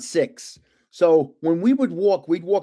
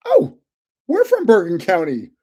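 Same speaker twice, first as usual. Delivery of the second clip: excited; 5 dB louder than usual. Retold or imitated. Telling the tourist he's from her county too, thrilled. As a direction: relive the thrill of finding neighbours abroad. Meeting fellow Jersey tourists abroad.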